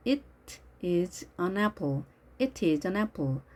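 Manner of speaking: British-style "It is an apple" with a crisp T in It; British pronunciation. Shown as a demonstration. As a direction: say "It" with a clearly released British T. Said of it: "영국식 발음일 때는". (영국식으로 It의 T를 또렷하게)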